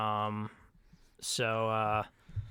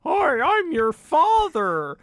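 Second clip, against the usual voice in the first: cat playing father; 5 semitones higher, slower than usual. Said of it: "You grab the cat's paws and you say".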